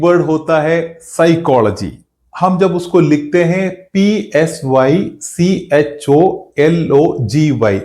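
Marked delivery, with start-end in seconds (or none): 3.9-7.8 slow letter-by-letter dictation; spelled out slowly. Shown as a demonstration. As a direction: spell "पी एस वाई सी एच ओ एल ओ जी वाई" one letter at a time. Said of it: "ऐसे लिखते हैं". (धीरे-धीरे spelling बोलें)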